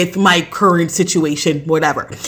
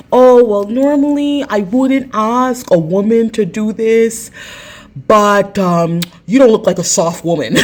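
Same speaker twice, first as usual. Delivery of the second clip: slow, put-on man's voice; lightly voiced neighbor asking a favor; slow mock-earnest request; imitating the neighbor; 3 semitones higher, slower than usual.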